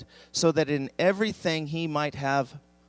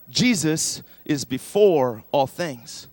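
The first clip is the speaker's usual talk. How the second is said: slow recited verse; 5 dB louder, slower than usual. Shown as a demonstration. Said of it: "I want you to say that one more time".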